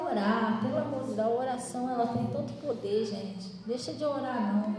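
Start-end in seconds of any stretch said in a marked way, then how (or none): none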